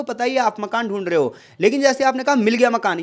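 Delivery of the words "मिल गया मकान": मिल गया hit first, falling on गया; stress on मिल गया. Shown as a demonstration. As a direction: lean on मिल गया as fresh news. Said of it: "सबसे पहले किस जोर को दिया".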